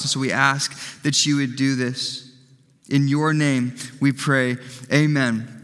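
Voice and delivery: earnest pastor's prayer, phrase by phrase. Real, not acted. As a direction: pray aloud for the congregation, unhurried and a touch subdued. Leads the church in prayer.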